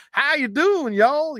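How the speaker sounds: high mock Texan "How you doing, y'all?"; Texan accent. Imitating a guy from Texas, a Texan accent. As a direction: do a light Texas drawl. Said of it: "one guy's from Texas".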